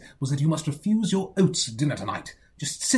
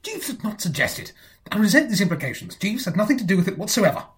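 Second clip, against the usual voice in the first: indignant; 5 semitones higher than usual. Acted. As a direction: bristle at the slight on Jeeves. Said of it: "no need to get excited about it".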